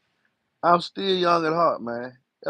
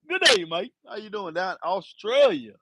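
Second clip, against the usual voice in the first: mock Australian; 4 semitones higher than usual. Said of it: "from Australia".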